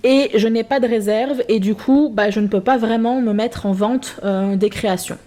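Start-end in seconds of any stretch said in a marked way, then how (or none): none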